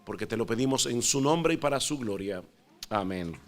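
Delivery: soft, low prayer voice. Acted. Pastor praying before the sermon, hushed and reverent. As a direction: pray quietly and humbly to the Lord.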